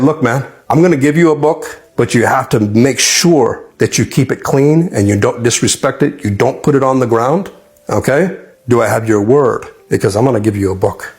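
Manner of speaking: imitating a stern, earnest warning; kind of stern. Omar setting rules before handing over the book, kind of stern. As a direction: lay down conditions, mildly stern. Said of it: "he said, kinda sternly".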